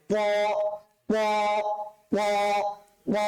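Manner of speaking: "প" said thick and full; thick, full-mouthed "প", each on its own; heavy letter sound. Shown as a demonstration. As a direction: drill "প" with a heavy, rounded sound. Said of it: "মোটা করে উচ্চারণ করতে হবে".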